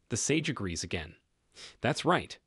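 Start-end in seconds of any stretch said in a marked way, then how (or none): 1.8-2.4 eager agreement. Acted.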